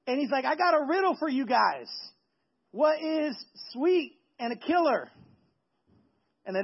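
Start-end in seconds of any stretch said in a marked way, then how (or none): 0.5-5.1 mock boastful riddle, slowing to the question; bragging. Samson posing his riddle to the party, bragging. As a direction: pose it grandly, higher at first. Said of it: "he starts bragging".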